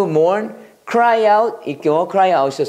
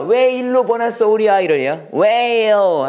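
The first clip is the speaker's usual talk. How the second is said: acted wail of a grieving dad; mock wail; 4 semitones higher than usual. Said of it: "아빠가 하는 말이야".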